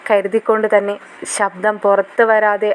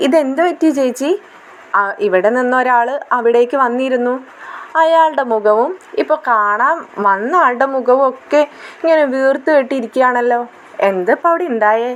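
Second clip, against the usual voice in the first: put-on raised, lightly childish girl's worried question; little girl voice; 3 semitones higher than usual. Younger sister asks Aleena on video call, lightly childish voice. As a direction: ask like a curious younger sister. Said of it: "Krishnamol ചോദിക്കുന്നുണ്ട്".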